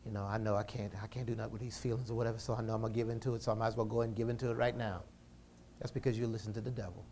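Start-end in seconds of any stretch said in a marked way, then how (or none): 0.1-5.0 compromising believer. Retold or imitated. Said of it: "start compromising and say".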